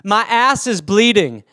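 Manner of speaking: lightly voiced stranger begging for help; drawn-out imitation of a plea; crazy stranger. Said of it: "and the guy is like".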